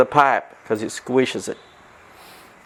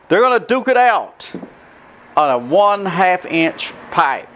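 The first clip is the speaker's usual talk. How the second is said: fight announcer; 2 semitones higher than usual. Acted. Boxing announcer intro.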